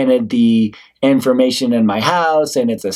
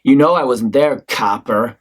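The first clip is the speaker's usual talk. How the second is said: condescending; 2 semitones lower than usual. Acted. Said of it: "to talk down to, to condescend to".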